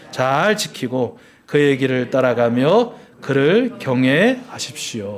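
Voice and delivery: measured, emphatic congregational reading; scripture reading. Acted. Preacher leads congregation reading Deuteronomy aloud together, clearly and deliberately. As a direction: read it out distinctly, phrase by phrase.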